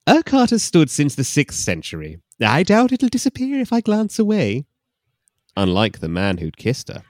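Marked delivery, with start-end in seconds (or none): 0.1-4.7 high, loud mock Scottish; proud Scot with a brogue; Scottish man.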